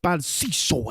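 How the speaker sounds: mock tongue-twister drill, high start then slowing; announcer warm-up. Announcer in the back practicing, mock warm-up exercise. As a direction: imitate a vocal warm-up, stretched and deliberate. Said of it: "whenever they be practicing".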